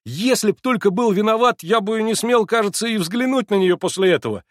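very high and loud; shouting excitedly. A narrator's reading. Alyosha shouting to the narrator, high and loud. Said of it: "кричал он".

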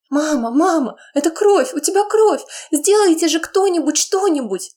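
put-on high frantic girl's cry for help; panicked scream. Daughter screaming over her bleeding mother, panicked. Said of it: "кричит Ева".

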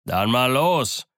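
slow, rising aggressive challenge; sailor's drawn-out battle call; cursing. Acted. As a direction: curse it out, drawn out. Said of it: "sagte Morgan mit einem Fluch".

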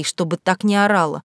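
ordinary delivery

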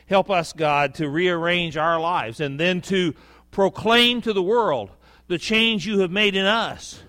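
earnest pulpit prayer, building in pitch; spoken prayer to God, swelling as it goes; public prayer. Real, not acted. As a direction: lead the congregation in prayer, measured and rising. Leads the congregation in prayer.

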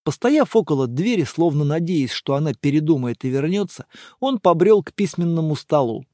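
usual speaking voice

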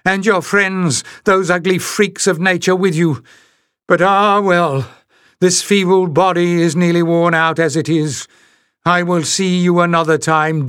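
put-on high croaking old witch; croaking hag. A narrator's reading. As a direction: croak it out with spite. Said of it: "she croaked".

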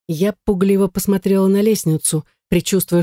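ordinary delivery, nothing marked

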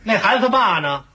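understated sarcastic needling; snide insinuation. Acted. Husband needling his wife about the child's father, snide and insinuating. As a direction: lightly needle with pointed questions. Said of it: "你这人说话怎么阴阳怪气儿的你？".

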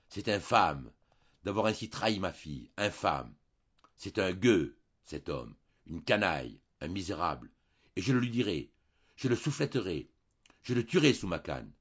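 pace and fume at the son-in-law; exasperated. Acted. Baron ranting about Julien, exasperated. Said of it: "exaspéré".

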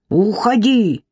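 sharp, angry "Уходи!"; angry order. Acted. Irka jumping up at Marik, angry command. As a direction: order him out. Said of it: "Ирка вскочила с кресла".

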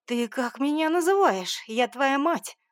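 offended mother's furious outburst; growled. Acted. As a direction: roar your outrage. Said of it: "рыкнула она".

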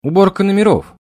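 put-on high girl's voice, calling loudly; young girl calling. A narrator's reading. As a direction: sing out like a young maid. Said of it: "голос молодой девушки".

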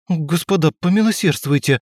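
high, beseeching plea; pleading. A narrator's reading. Arrested man begs the gentlemen, high and pleading. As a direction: beg for mercy, voice lifted. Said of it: "взмолился он".

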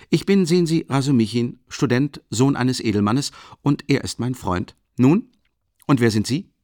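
high, loud and boisterous, a big clumsy student; hearty booming Rasumichin. Acted. Rasumichin ducking into the tiny room, loud and hearty. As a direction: fill the cramped room with your voice.

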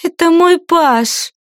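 high, slow, haughty claim. A narrator's reading. Lady claims her page to Cora, haughty. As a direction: look down your nose as you say it. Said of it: "высокомерно прищурилась та".

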